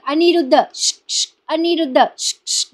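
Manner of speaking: name called high, followed by whispery "psst"; imitated furtive calling. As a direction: mimic discreetly trying to get someone's attention. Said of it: "आवाज देताय".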